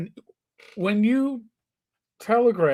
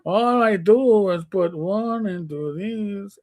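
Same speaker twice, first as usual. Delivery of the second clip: bad Hispanic accent; 3 semitones higher, slower than usual. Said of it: "I'm doing a bad Hispanic accent".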